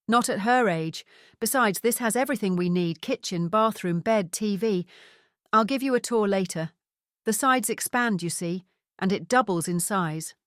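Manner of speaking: chatty Scottish father, broad vowels; Scottish accent. Acted. Father explains the surprise visit to his son, Scottish accent. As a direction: tell it like a cheerful Scot. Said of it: "in his strong Scottish accent".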